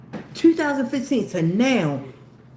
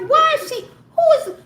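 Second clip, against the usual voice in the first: much higher, louder laughing squeal; laughing disbelief; 6 dB louder than usual. Retold or imitated. Mom reliving the eerie coincidence, laughing high squeal. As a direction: shriek it half laughing, half crying. Retelling her shock, laughing.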